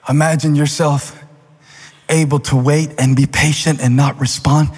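gentle guided imagining. Real, not acted. Guided imagining, slow pauses.

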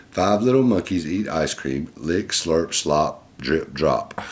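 lively, clearly projected picture-book reading; reading to children. Acted. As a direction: read it out to a little listener. Reads picture book aloud.

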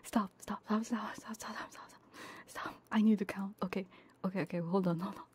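normal talking voice

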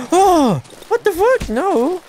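high loud shrieking; real fright at a sudden attack; panicked scream. Real, not acted. Player screaming as a creature lunges. Dog attacks in horror game.

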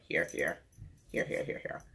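whispered, trailing off; whispered to self. Real, not acted. She points at where the picture should be, whispering. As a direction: whisper it to yourself while pointing.

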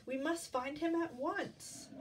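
high, slow, urgent hen; lightly voiced hen's plea; clucking hen. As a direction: urge them on, drawing it out. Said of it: "Henny Penny clucked".

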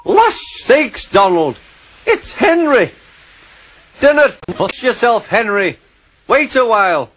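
high, eager Scottish call; Scottish engine voice. Acted. Twins calling to Henry in the drift, high Scottish voice. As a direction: cheerfully shout to him in a broad Scots lilt.

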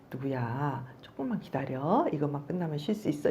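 put-on gently calm the child down; soothing mother. Mother calmly soothing her child. (아이를 달래는 엄마, 부드럽고 조용하게)

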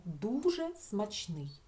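Дуже смачний said slowly, testing it; teacher testing a word aloud; slow trial phrase. Shown as a demonstration. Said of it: "Давайте подумаємо".

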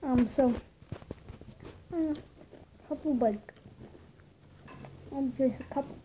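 chewing while talking; muffled by food in mouth; mouth full. Real, not acted. Seen 1: ate chip just before; lips pressed, chewing motion while reaching for more.

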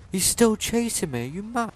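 high, loud frantic yelling; frantic screaming; panicked shout. Real, not acted. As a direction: yell while being chased.

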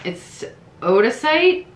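slow first try at "Odacite" as oh-duh-site with a questioning rise; first careful stab at "Odacite", lifting at the end; unsure pronunciation. Shown as a demonstration. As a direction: sound out "Odacite" as oh-duh-site, rising as if asking. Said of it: "sorry if I butcher this".

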